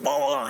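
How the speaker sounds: high-pitched booms for punches; punch sound effects. Retold or imitated. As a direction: voice the punches landing, quick and high. Acting out punches landing in sparring.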